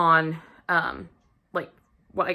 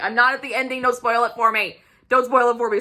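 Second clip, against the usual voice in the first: mock-urgent plea, pitched up; hurried, higher-pitched retold objection; urgent protest; 4 semitones higher, 3 dB louder than usual. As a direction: cut in to stop a spoiler. Panicked plea against spoilers, retold.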